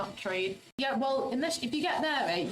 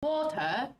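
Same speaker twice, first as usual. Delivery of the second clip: American's fake British; 4 semitones higher than usual. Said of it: "an American tries to do, like, the British accent".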